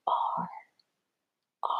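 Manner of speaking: whispered R, held. Shown as a demonstration. Teacher whispering R while kids write the letters. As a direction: breathe R softly as you write. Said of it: "make sure you whisper and go".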